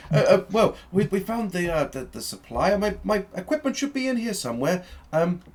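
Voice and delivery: high, loud, fussy Doctor voice; flustered Doctor. Acted. Doctor explaining to the party about his equipment, flustered. Game master plays the Doctor.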